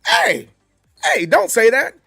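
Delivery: loud, startled "whoa, hey" over and over; alarmed protest. Retold or imitated. American friend shocked by British slang, loud alarm. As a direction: cut him off in alarm. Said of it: "You're like".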